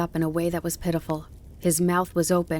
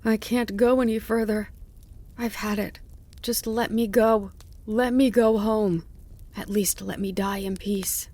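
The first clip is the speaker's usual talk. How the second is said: higher-pitched, exhausted pleading; begging; 4 semitones higher than usual. A narrator's reading. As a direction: plead for mercy as a wounded fox. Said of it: "The fox begged him even harder".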